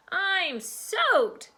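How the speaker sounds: put-on high, complaining child's voice; high-pitched wail of complaint; calling from somewhere. A narrator's reading. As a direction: call out from under the pile. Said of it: "Darla said from somewhere".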